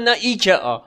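lightly mocking foreign clerk correcting him; a touch of a smug foreign voice; correcting foreigner. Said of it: "گفتن".

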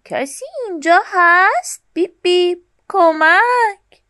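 little truck honking and calling everyone to help. A narrator's reading. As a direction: call out across the field for help. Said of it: "با خستگی گفت".

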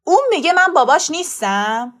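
father's incensed outburst; going mad. A narrator's reading. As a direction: explode in disbelief.

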